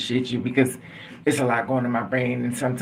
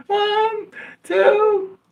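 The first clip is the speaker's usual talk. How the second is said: put-on louder child counting; 4 dB louder than usual. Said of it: "Louder, louder".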